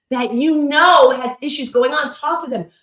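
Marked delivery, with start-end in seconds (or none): none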